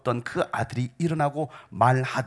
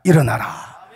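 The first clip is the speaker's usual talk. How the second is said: loud booming command; commanding shout; 10 dB louder, slower than usual. Acted. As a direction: shout him back to life. Commanding the dead to rise. (힘차게 외치는 명령)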